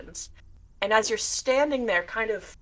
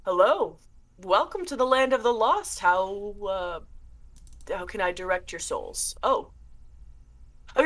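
a hint of a courtly ghoul; mild spooky butler voice; lightly voiced shade; 2 semitones higher than usual. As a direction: greet them like a polite host of the dead. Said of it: "And he goes".

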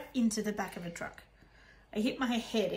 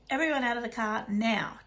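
shouting; 4 dB louder than usual. Acted. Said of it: "Dad shouted".

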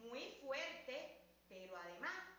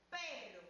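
rolled rr in "perro" stressed; teacher model. Shown as a demonstration. Teacher models "perro" for children to repeat, strong rolled r. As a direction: say "perro" clearly with a strong trill. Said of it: "Repitan conmigo".

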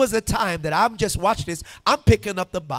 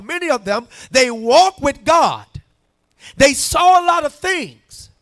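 preaching; 3 semitones higher, 6 dB louder than usual. Acted. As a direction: press each point home to the congregation. Preaches with rising emphasis.

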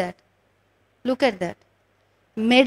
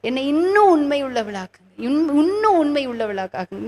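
muttered prayer; much faster than usual. Retold or imitated. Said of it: "when I uttered those words".

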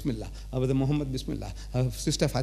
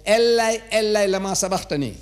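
loud cry; 5 semitones higher than usual. Retold or imitated. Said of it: "cried with a loud voice".

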